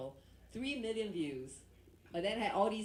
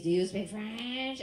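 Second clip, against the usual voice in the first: put-on loud, slow French-accented English; 6 dB louder, slower than usual. Comic translates the French guy's question, hammed-up French accent. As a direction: stretch it out in a mock French accent. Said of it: "went up to this French guy".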